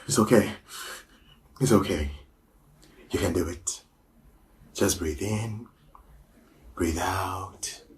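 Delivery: a coach easing the actor back, mildly soft; soothing coach. Acted. Coach calms the actor again.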